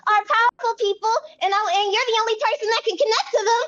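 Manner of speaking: rambling, restarting self-defence; flustered. Acted. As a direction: stumble over yourself making excuses. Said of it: "adorable when you're flustered".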